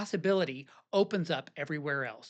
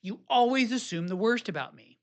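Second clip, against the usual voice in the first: raised, accusing snap; a hint of a stung husband's complaint; mock defensive retort; 4 semitones higher, 4 dB louder than usual. Shown as a demonstration. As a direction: fire it back like you've been wronged. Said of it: "You may be tempted to say".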